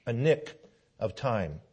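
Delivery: thundering call to sign the Declaration; John Witherspoon speech. Retold or imitated. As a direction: orate like a pastor rousing the signers. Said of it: "He said".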